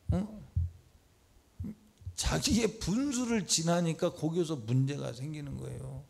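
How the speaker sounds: ordinary talk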